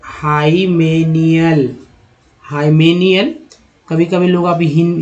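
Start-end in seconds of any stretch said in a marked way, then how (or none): 0.0-3.3 हाइमेनियल drawn out slowly, then rising; slow demo pronunciation. Shown as a demonstration. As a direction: sound out हाइमेनियल for students. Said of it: "फिर देखिए". (धीमा उच्चारण)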